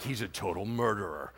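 low, soft judgmental aside; hushed mock gossip; gossiping natives. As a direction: pass the verdict on under your breath. Natives gossip about Paul.

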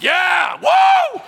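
very high, loud cheering shout; altar-call whoop. Retold or imitated. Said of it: "I was like".

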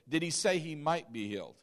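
questioning weight on "might"; stress on MIGHT. Shown as a demonstration. Preacher challenging listeners on the wording, stressing "might". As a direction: pick out "might" as the doubtful word. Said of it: "the emphasis on words".

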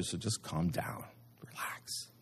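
soft, dropping into a whisper; God. Acted. God reassures Elijah about Jezebel, calm and whispered. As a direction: hush it right down to soothe. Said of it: "And God calmly tells Elijah".

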